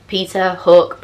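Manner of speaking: mock sing-song back and forth; first of the back and forth. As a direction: toss the names out like one side of a swing. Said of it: "It was very samey, to and fro".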